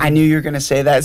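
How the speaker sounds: quick, knowing jab of sarcasm; lightly acted parental sarcasm; sarcastic. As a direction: toss it off fast, as if you saw it coming. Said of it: "What does that sound like, sarcasm".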